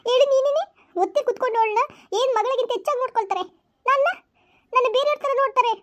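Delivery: sulky, tearful protest; a child arguing she is unloved; resentful daughter. Acted. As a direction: daughter complaining to mother about her dad. Daughter argues with mother.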